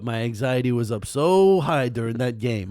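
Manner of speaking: put-on a light New York accent, riot fan talk; lightly voiced New York sports fan accent. Joking to cohost as a New York fan, light New York accent. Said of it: "that was a New York accent".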